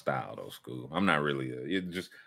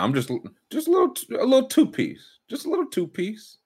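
excited; 13 semitones higher than usual. Real, not acted. Excited pick, pitch jumps.

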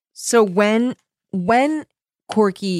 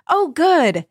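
cheerful relief; 9 semitones higher, 4 dB louder than usual. A narrator's reading. Voicing cheerful Kimmy on phone.

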